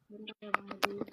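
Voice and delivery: breathy whisper off mic; whispered aside. Real, not acted. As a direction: quietly ask the host to hold on. Asks host to wait again. (berbisik minta tunggu sebentar)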